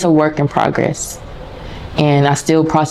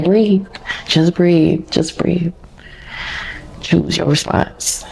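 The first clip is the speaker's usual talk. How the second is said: a light hint of a soothing therapist, slowing down; therapist's calm voice; 2 semitones higher, 3 dB quieter, slower than usual. Her therapist's voice in her head during a tense lunch, mildly soothing. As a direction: gently coach yourself to breathe, softer by the end. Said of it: "I heard a little voice, probably my therapist's voice".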